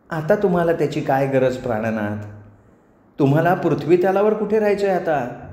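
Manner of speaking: lightly voiced sweet temptress; dismissive apsara. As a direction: brush his worry aside, sweetly. Voices Menaka. (गोड आवाजात बेफिकीर अप्सरा)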